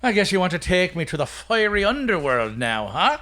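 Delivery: light Irish brogue, cheeky comeback; a hint of a sassy Irishman; Irish accent. Stingy Jack snaps back at the devil in a light Irish accent. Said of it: "I'm gonna play Stingy Jack with my best, uh, possible Irish accent".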